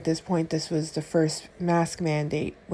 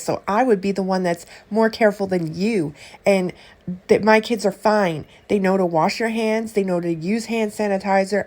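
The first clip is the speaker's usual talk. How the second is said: angry lecture; 3 semitones higher, 5 dB louder than usual. Retold or imitated. Angry argument defending her kids.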